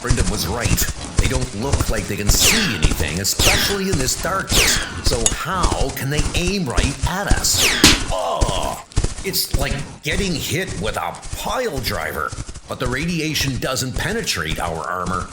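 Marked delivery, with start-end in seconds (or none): 0.0-11.8 loud, urgent calls over the fight; knight shouting in battle. Acted. Armored knight shouting to comrades during attack, loud and urgent. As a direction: push the words out under fire, fast.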